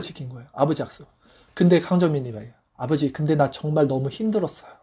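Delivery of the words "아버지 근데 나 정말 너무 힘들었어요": a soft, weary plea to his late father; heartfelt tired confession. Retold or imitated. The son tells his father's photo his life was hard, hushed. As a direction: let the fatigue show gently. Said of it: "감정이 딱 들어오는 거예요".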